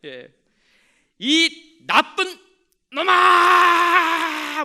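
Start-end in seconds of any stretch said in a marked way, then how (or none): 1.2-4.6 long drawn-out high yell; shouted curse. Acted. Boy yelling a curse from the mountaintop. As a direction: bellow it slowly across the valley. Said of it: "그럼 제가 욕할 거예요".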